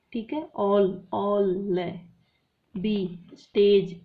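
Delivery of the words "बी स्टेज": B, स्टेज said louder and very slowly, ending एज drawn out; stretched end sound. Shown as a demonstration. Teacher marking rhyme letters, stretching the ending. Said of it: "एज आ रहा है".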